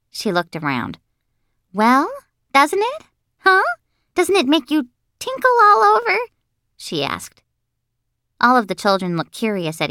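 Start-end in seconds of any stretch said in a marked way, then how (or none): 1.7-6.2 put-on very high, pushy little-girl questions; squealing higher with each question; insistent excited girl. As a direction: press everyone eagerly for agreement.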